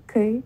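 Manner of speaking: K said as "Ky", with the short vowel of living; first syllable alone. Shown as a demonstration. Teacher isolating the first syllable, K with the i of livid. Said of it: "the first syllable, the K, the vowel".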